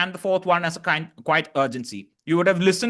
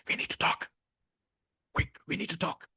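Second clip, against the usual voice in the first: urgent whisper, much softer; quiet urgency; 10 dB quieter than usual. Shown as a demonstration. Coach whispering an urgent warning to demonstrate. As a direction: hush it, pressing and close. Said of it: "something which is a quiet urgency".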